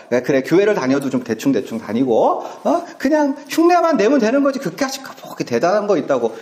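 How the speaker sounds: mild mock shrug, high on 그냥 then rushed; dismissive. Worldly people belittling faith, lightly mocking. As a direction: brush church off as a chore. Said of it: "욕망에 충실해서".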